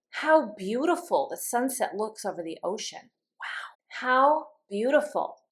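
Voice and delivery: mildly awed admiration; demonstrated surprise, lightly emotional; surprised exclamation. Shown as a demonstration. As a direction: exclaim with a touch of wonder. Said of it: "exclamation that expresses surprise".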